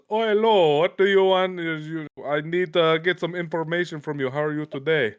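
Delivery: scammer greeting in a put-on Southern accent. Caller on the scam line, in a Southern accent. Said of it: "That was a good Southern accent".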